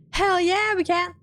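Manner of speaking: high, triumphant exclamation; excited cheer. Acted. Cleric told they can pass, cheering. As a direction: crow it out high with glee.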